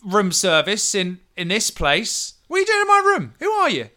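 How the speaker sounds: high, loud indignant demand; angry challenge. Acted. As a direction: confront an intruder from outside. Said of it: "you hear this voice again say".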